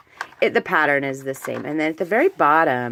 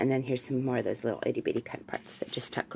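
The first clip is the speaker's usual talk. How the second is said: breathy whisper to herself; whispered aside; 2 semitones lower, 8 dB quieter than usual. Real, not acted. Crafter whispering to herself while tucking cards in.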